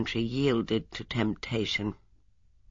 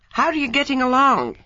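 higher, louder cheery greeting; cheerful; 13 semitones higher, 6 dB louder than usual. A narrator's reading. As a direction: greet him with bouncy good cheer. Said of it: "he asked cheerfully".

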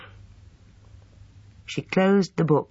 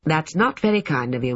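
mildly severe; 3 semitones higher than usual. Acted. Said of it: "said Lucy severely".

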